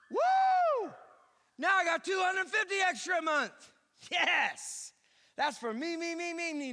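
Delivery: squealing high, loud mock glee; imitating a giddy listener cheering for himself; excited. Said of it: "all of you are getting excited".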